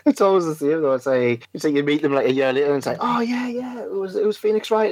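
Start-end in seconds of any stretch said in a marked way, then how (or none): 3.0-4.9 acted high "oh" of remembering; mock sudden recognition. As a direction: play the penny dropping, starting high. Acts out a fan's belated recognition.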